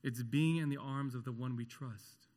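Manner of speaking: normal talking voice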